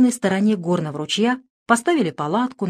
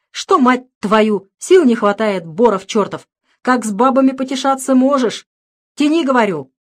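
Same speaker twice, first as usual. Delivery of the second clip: громко, со злостью; матерись, подгоняя товарища; ругань; 4 semitones higher, 6 dB louder than usual. Acted. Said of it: "отпустил мат". (злая ругань у ямы)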